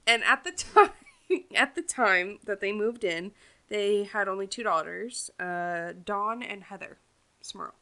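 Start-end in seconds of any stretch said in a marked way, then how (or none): 0.0-3.3 with hiccups. Real, not acted. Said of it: "I got hiccups".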